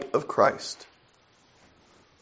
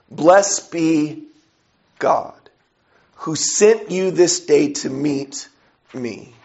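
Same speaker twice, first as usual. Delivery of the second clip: slow re-reading with "God" set apart by pauses; pointed pauses; much slower than usual. Shown as a demonstration. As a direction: break the verse up slowly so "God" stands alone. Re-reads verse to answer "to who?.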